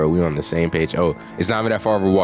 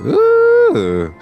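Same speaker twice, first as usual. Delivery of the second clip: screaming in fear; 8 dB louder than usual. Real, not acted. Floating ghost scare in horror game.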